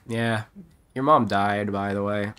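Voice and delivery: mock nonchalant delivery of bad news; mock chill. Streamer mimicking a cop's way too chill sympathy, mock casual. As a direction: imitate someone far too casual. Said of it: "This guy sounds way too chill".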